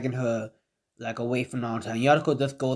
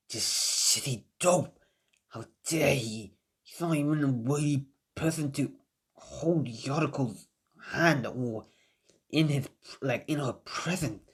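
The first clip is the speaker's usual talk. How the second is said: seething Sasuke; 5 dB quieter than usual. Acted. Sasuke bangs fist, seething.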